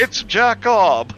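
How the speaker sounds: high, very slow mock announcement; quiz reveal. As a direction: stretch out the big reveal.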